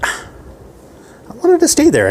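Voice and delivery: very high, slow, sing-song character voice; put-on girly voice. The girl explains she wanted to stay, very high and slow. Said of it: "And she's like".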